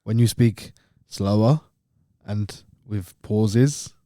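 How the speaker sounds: slow Italian accent with long pauses; halting, drawn-out English in an Italian accent. Shown as a demonstration. Showing how he talks with Italian mate, Italian-English accent. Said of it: "my best mate's Italian".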